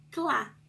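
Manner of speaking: Clá with a clear CL blend; syllable demo. Shown as a demonstration. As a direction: sound out Clá for kids. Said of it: "eu vou ter outro som".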